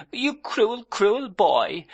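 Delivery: put-on high, petulant girlish pout; a hint of a hurt young wife; lightly voiced bride scolding her husband; sulky repeated reproach. A narrator's reading. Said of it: "said so many times".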